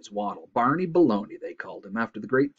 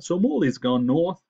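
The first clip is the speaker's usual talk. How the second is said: loud, raised moose voice; congested moose; 7 semitones higher, 5 dB louder than usual. A narrator's reading. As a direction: finish the news through a stuffed nose. Moose character explains.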